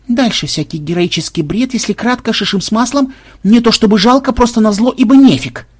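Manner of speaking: high, increasingly loud run-through; brisk dismissive summary. A narrator's reading. Crewman skimming the log's heroic nonsense, high dismissive summary. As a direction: sum it up high, building to a punchy end.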